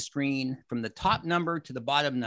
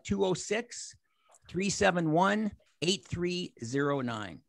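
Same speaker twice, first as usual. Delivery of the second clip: slow, softer number read for noting down; slow dictation; 3 semitones higher, 4 dB quieter, slower than usual. Shown as a demonstration. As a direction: spell it out so they can write it. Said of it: "write this phone number down".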